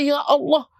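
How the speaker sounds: a touch of anguished begging, mildly acted; mock desperate cry. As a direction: cry out to God as if suffocating. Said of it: "Akhirnya dia teriak-teriak".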